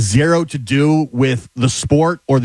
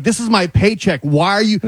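imitated plea, pitched up; higher-voiced mock begging; begging bus driver; 6 semitones higher than usual. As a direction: lightly act out a driver pleading for his livelihood. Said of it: "the bus driver's begging".

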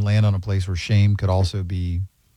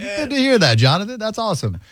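high chirpy voice; 12 semitones higher than usual. Retold or imitated. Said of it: "I was like".

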